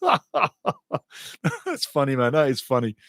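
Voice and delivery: laughing through the words. Real, not acted. Commentator laughing at a chat comment, laughing. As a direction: chuckle while saying it.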